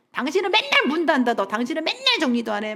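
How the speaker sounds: mock nagging accusation, pitch lifted at first; imitated blaming. Father blaming mother over habits, imitated nagging blame. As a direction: act out a habitual fault-finder. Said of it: "비난의 말을 정말 많이 하셨어요".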